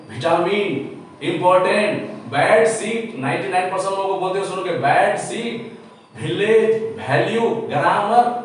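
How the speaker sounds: विटामिन, इंपॉर्टेंट, बैड सीट said with heavy punched stress; high stress demo. Shown as a demonstration. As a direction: hit every syllable hard and high, the wrong way. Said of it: "इतना high stress में English नहीं बोलना चाहिए". (ज़्यादा stress वाला गलत उच्चारण)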